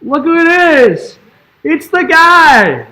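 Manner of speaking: high-pitched gushing welcome; high, drawn-out delighted greeting; excited pet greeting. Real, not acted. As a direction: squeal a big hello to the dog. Greeting the dog as it arrives.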